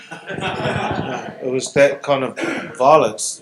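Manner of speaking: laughs through the words; a rueful laugh while explaining; half-laughing at the memory. Real, not acted. Laughs about rugby violence.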